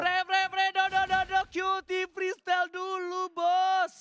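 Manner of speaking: excited. Real, not acted. Caster chants hype for Fredo.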